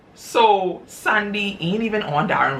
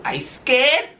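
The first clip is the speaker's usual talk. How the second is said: much higher, small voice; scared mistress; 9 semitones higher than usual. Retold or imitated. Mistress to the husband, high and frightened. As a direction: sound timid and shaken.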